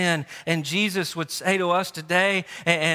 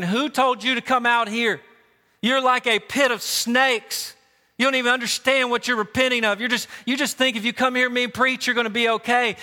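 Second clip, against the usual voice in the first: higher, fast, scolding prophet voice; preaching prophet; 6 semitones higher, faster than usual. Acted. John the Baptist rebuking the church folks, fast fiery preaching. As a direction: rail at the crowd like a fiery prophet. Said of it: "And he's saying".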